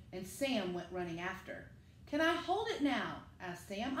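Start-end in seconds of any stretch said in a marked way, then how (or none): 2.1-3.2 put-on a slightly higher, eager child voice; lightly voiced small boy begging to hold the kite; little Sam's voice. Sam asks the firemen.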